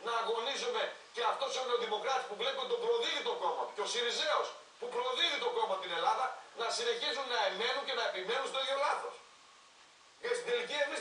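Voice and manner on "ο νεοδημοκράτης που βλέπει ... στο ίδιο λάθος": a scornful laugh through the words; chuckling in disbelief; laughing scornfully. Real, not acted. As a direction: laugh at their stubbornness as you speak. Mocking the parties' voters.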